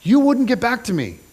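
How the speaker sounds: desperate demand. Retold or imitated. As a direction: push hard, voice lifted, at the end of your rope. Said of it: "So Absalom says".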